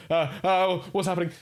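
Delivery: high, sharp jittery panic; jittery and sharp, scared. Shown as a demonstration. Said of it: "he's stiff".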